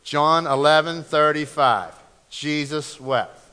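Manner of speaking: firm reference, then slow verse; leading a recitation. Shown as a demonstration. Preacher helps congregation memorize a verse, measured recitation. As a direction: lead the room through it, loud then slowing. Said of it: "Say it with me".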